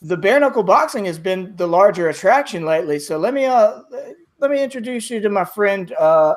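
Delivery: lightly voiced cheerful arena host; a hint of the chatty host Katie. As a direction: play the friendly fight-club host. Katie the host keeps talking.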